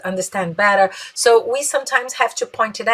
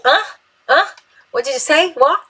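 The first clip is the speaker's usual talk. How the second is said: rude huh; 6 semitones higher, 4 dB louder than usual. Retold or imitated. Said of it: "Não é legal".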